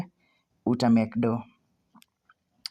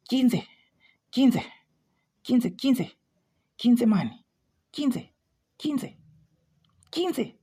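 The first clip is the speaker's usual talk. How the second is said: high repeated calls, climbing ever higher; excited calling; 9 semitones higher, slower than usual. Real, not acted. Trader cheering the price toward fifteen, high excited calls. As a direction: cheer the number on, higher each time.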